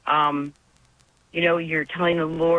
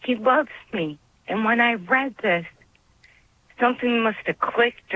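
emotional; 6 semitones higher than usual. Real, not acted. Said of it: "I'm sorry to get emotional".

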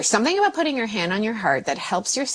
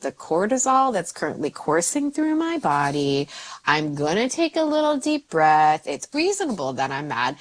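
self-calming; 2 semitones higher than usual. Shown as a demonstration. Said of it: "to be like".

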